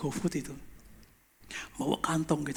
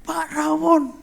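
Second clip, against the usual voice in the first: high, loud acted call; helper's raised, yelling voice; excited shout; 10 semitones higher, 7 dB louder, much slower than usual. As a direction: call out the surprise discovery.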